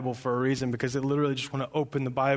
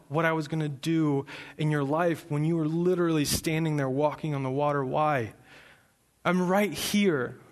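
caring and kind; 3 semitones higher than usual. Retold or imitated. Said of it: "but he was still caring and kind".

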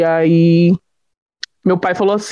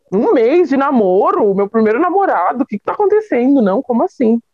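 retold bewilderment, pitched up; nervous disbelief; 4 semitones higher than usual. Girl one month into dating, nervously incredulous. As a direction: reel off objections in mild panic. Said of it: "eu tava muito nervosa".

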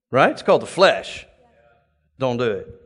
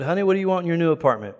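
quick retold question; 2 semitones higher, much faster than usual. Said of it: "So I said".

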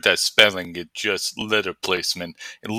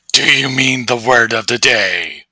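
mock second host; 5 dB louder than usual. Other host voice responds.

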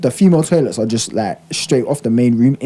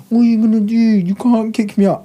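mock cocky bouncer-taunt; 7 semitones higher than usual. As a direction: sneer it like a cocky drunk. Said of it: "He's like".

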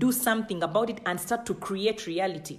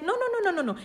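emphatic refusal; 8 semitones higher, much faster than usual. Acted. God refusing Ezekiel's shrug.

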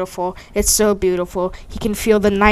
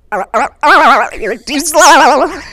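slow, warbling goofy taunt, higher and louder; mock taunt; 4 semitones higher, 5 dB louder, much slower than usual. Attacker grabs her by the throat, mock taunting wobble. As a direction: draw it out with a silly wobbling laugh. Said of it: "grabs her by the throat and says".

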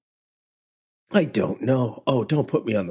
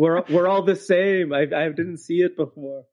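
imitating restaurant owner; 3 semitones higher than usual. Restaurant owner telling his wife.

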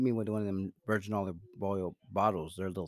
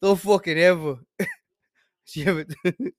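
louder, higher hammed-up wiseguy rage, laughing; mock mobster outburst; 8 semitones higher, 7 dB louder than usual. Mobster scolding his friend about Amber Heard. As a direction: blow up like an offended don. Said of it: "take me out of character".

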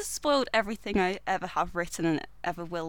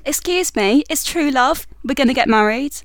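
indignant; 5 semitones higher, 9 dB louder than usual. Acted. Jasmine protests in the play.

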